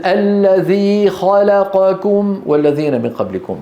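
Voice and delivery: الذي خلقكم with every short vowel the same length; slow, measured recitation; even vowel lengths. Shown as a demonstration. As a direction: correct tajweed timing. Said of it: "نفس الطول".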